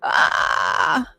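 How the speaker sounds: high startled voice, a sudden jump up; playing someone who suddenly realizes they're stuck; mock panicked surprise. A speaker acting out her own shock at being stuck, in a mock panic. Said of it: "and I'm like".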